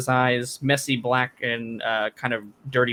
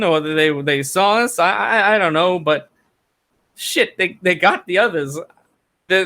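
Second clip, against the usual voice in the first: a touch higher, nervous and halting; shaken villager Carl; 4 semitones higher than usual. Acted. Carl tells the room how his party met the spiders, higher and halting. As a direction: stammer it out like a man still in shock.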